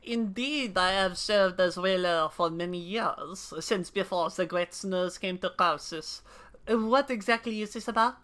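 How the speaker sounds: lightly voiced old Elezen whaler; NPC voice. Streamer voicing an old whaler NPC, lightly grave. NPC dialogue read aloud.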